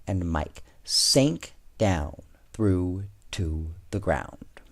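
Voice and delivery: put-on reading a picture book to children; children's storybook read-aloud; story narration. A narrator's reading. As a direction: tell it gently like storytime. Reads second story aloud.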